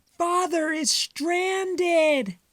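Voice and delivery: very high, slow squeaky wail; alarmed mice. Acted. Mice spotting Father cut off by tide, high slow squeak. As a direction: stretch it out in a tiny squeak.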